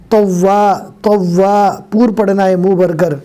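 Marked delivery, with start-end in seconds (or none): 0.1-1.6 तव्वा with a heavy, full-mouthed ط. Shown as a demonstration. Teacher showing students the heavy ta in तव्वा. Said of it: "हमें पढ़ना है मोटा".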